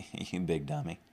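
mock-kindly put-down, softening with a chuckle; kind-sounding insult. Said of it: "kind-sounding way of saying".

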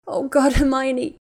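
cling to your friend, gasping; distraught gasp of a name; gasping cry. Acted. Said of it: "Ginny gasped".

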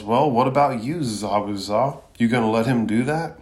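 put-on boy angrily challenging the rogue ninja; angry yell. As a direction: demand an answer, furious. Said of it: "And Naruto angrily yells".

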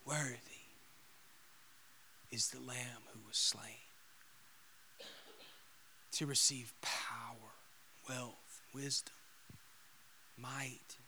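soft, half-whispered praise with long pauses; hushed reverence. Acted. Preacher repeating the angels' praise, hushed and reverent. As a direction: let each phrase fall to a reverent hush.

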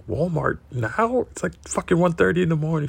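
mock outrage at a late-night shopping trip; incredulous disbelief. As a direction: stretch out the disbelief, then rattle off the late hour. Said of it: "I'm like".

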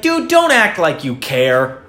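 slow, drawn-out mock retort; hammed-up annoyed comeback; acted indignation. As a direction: throw the sympathy back, stretching the words. Acted angry retort to sympathy.

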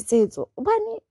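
very high, loud mangled "Tsetso" as the clueless stranger; mocking mispronunciation. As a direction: squeal it like someone who can't be bothered.

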